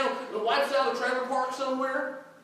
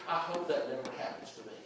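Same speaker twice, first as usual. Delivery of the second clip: lower, softer murmured wish; quiet private thought; 8 semitones lower, 7 dB quieter than usual. Acted. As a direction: think it to yourself, low and soft. Congregant's private wish, voiced.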